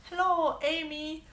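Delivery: high, sing-out hello in exaggerated Persian accent; mom's Persian accent. Mom greeting a famous singer, hammed-up Persian accent. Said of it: "And in her accent".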